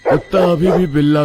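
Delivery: stammer, then climb high in alarm; rising, startled disbelief; frightened stammer. Acted. Man noticing the dog's red eyes, stammering with fright.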